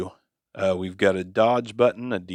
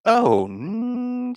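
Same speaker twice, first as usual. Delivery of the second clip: auto-tune; 13 semitones higher than usual. Shown as a demonstration. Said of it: "Regular D".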